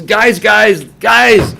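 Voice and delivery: high, loud call for attention; urgent excited hollering. Retold or imitated. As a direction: shout to get a rowdy hall's attention. Calling out to dining hall.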